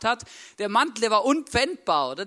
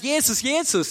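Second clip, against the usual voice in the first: imitated cry, higher and louder; retold shouting; 4 semitones higher, 5 dB louder than usual. Preacher recalls someone jumping up mid-service, retold shouting. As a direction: call the name out like the beggar, half-shouted. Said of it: "aufgesprungen ist und geschrien hat".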